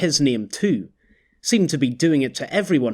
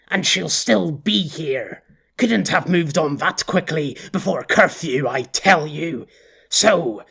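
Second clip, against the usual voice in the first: cocky boss; 3 semitones higher than usual. Acted. Quiddell boss voice, eager.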